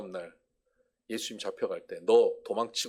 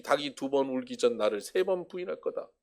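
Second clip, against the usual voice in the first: ordinary talk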